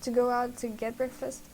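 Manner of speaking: breathless reading; winded, gasping between words; out of breath. Real, not acted. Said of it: "I'm out of breath".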